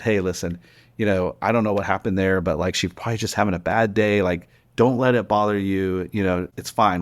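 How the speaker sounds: easygoing, low-key comforting tone; retold reassurance. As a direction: talk her down calmly. Retells calming the yelled-at lady.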